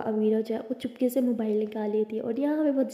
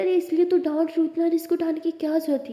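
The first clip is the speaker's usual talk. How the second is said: high, louder telling-off; scolding; 6 semitones higher, 4 dB louder than usual. A narrator's reading. Anokhi scolds her for taking such a risk, mildly angry. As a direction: scold her with mild exasperation. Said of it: "आप मुझे डांट रहे हो".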